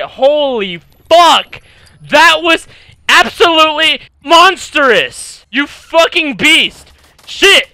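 high, loud, slow hype yelling; hyped shouting. Real, not acted. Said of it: "I'm fucking super excited".

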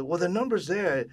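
lightly acted mother, high and loud; retold mother. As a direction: brush him off as mom. Retold mother brushing son off.

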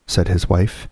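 ordinary delivery

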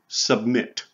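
"submit" with the weight on MIT; stress on last syllable. Shown as a demonstration. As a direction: lean on the second syllable of "submit", set apart by pauses. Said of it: "is stressed on the last syllable".

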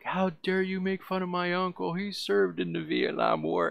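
squeaky indignant stranger, hammed up; mocking the gunman. Gunman defending his uncle before shooting, high mock voice. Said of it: "he's all like".

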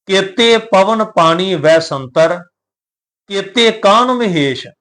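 slow, measured recitation of the verse; scripture recitation. Shown as a demonstration. Teacher reciting Gurbani to the sangat, slow and measured. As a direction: intone the line with care.

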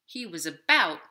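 gentle picture-book narration; reading to children. A narrator's reading. Librarian reading a picture book to children, gentle storytime voice. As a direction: read it like storytime.

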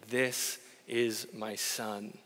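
soft, drawn-out loving declaration; tender proclamation. Acted. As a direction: breathe it like a father's quiet blessing. God looking at Jesus, saying.

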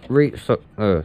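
talking around a needle in the mouth. Real, not acted. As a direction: speak with a needle between the lips. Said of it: "I've got a needle in my mouth".

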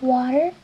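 "watermelon" with an English w and r; English word watermelon. Shown as a demonstration. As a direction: model "watermelon" clearly. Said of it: "se dice".

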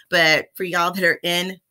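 a slip into a light Texas accent. Real, not acted. Vlogger back from Texas, slipping into a light Texas accent. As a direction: let a touch of Texas creep in on y'all. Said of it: "Why am I talking with an accent now?".

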